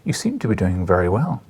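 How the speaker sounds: a hint of a Scottish editor; lightly voiced old Scottish news editor; gentle Scottish lilt on an old editor; light Scottish accent. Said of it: "he said in his light Scottish accent".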